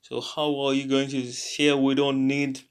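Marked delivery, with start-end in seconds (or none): 1.2-2.6 talking through a yawn. Real, not acted. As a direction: yawn while speaking. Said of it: "I'm yawning again".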